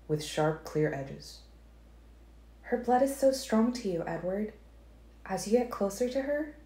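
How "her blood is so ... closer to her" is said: higher female voice, gentle warning; Alice cautioning Edward about the girl's blood. A narrator's reading.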